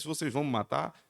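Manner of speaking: ordinary talk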